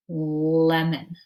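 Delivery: "lemon" with a long held L; stretched sound. Shown as a demonstration. Teacher naming the word to label, "lemon" with a drawn-out L. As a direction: hold the first sound of "lemon". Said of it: "So let's stretch it".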